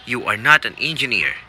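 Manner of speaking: even, formal prompt read of "You are not an engineer."; test recording voice. Shown as a demonstration. Coach voicing the test's prompt recording, formal. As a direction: say it as the exam recording would. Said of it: "a voice says".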